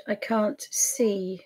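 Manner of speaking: slow, puzzled whisper to herself. Real, not acted. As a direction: whisper it slowly under your breath, searching. Searching for video, muttering.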